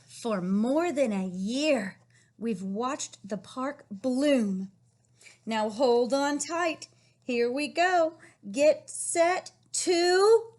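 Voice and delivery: slow, loud building storybook excitement; excited read-aloud. Acted. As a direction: build the ride's thrill for the kids. Reading book ending.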